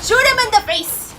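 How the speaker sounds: high, loud holler; urgent egging on. Real, not acted. Viewer urging a shot in the face, urgent. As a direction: yell it at the fighter insistently.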